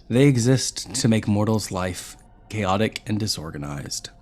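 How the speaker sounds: ordinary delivery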